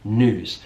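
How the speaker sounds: "news" said nooz, y gone; American "news", low and without a glide; yod dropping. Shown as a demonstration. Teacher demonstrating the missing sound, American pronunciation. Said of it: "that y sound is gone".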